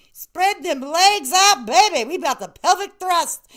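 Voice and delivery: rally the ladies like a fitness coach; workout coach call. Pretend.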